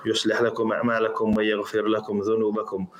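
quick, even-pitched Arabic recitation; formulaic sermon opening. Acted.

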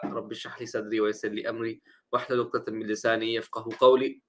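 hoarse, scratchy throat; speaking through a sore throat. Real, not acted. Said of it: "I have the hiccups and, uh, a sore throat".

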